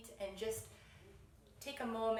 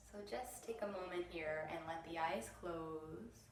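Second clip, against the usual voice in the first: unhurried meditation voice with long pauses; gentle, measured mindfulness guidance; guided meditation; 5 dB quieter than usual. Real, not acted. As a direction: ease them into stillness, leaving space between phrases. Leads eyes-closed meditation.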